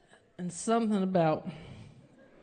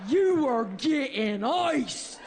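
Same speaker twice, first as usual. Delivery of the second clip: much higher, slow, shouted command; Linda yelling; 8 semitones higher, slower than usual. Retold or imitated. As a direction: bark it like a drunk ringleader. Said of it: "Linda yells".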